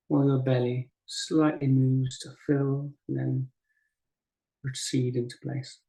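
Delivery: unhurried guiding voice with long pauses; guided meditation. Acted. Teacher guiding a group to breathe and settle, guided meditation. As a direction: ease them gently through each breath, leaving space between phrases. Leads breathing and body practice.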